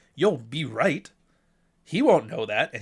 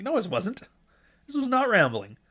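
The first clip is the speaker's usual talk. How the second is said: indignant protest; 8 semitones higher than usual. Retold or imitated. Arguing with the AI.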